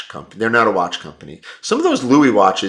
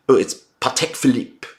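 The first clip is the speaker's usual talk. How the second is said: mocking pedant; 4 semitones higher than usual. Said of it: "some knucklehead".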